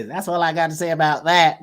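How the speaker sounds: lightly imitated Southern movie catchphrase; a hint of a film-character impression; Forrest Gump. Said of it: "That's my best, um, version of".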